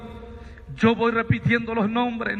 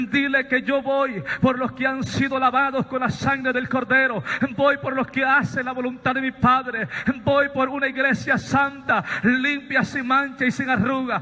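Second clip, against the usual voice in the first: predicación intensa; 3 semitones higher than usual. Acted. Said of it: "predica con fuerza".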